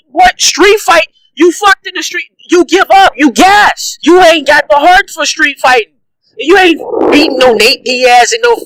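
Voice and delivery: high, heated taunt; mock him to his face. Real, not acted. Taunting Conor.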